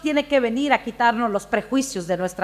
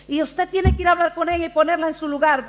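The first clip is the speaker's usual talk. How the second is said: mildly indignant retelling, pitched up and quick; 4 semitones higher, faster than usual. Retold or imitated. Indignant sister urging the missionary to confront gossip, mock-indignant. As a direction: imitate an offended sister urging action. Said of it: "una hermana bien indignada".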